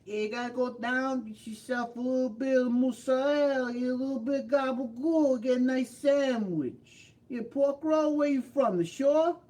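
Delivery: high-pitched hammed-up Brooklyn accent. Ordering mozzarella and gabagool, hammed-up Brooklyn accent. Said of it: "That's more Brooklyn".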